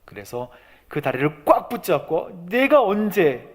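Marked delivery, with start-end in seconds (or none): 2.5-3.5 high, strained protest, acted out; earnest, anguished appeal; desperate pleading. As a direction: break off after the first words, then plead upward. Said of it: "간절히 하나님 앞에 얘기를".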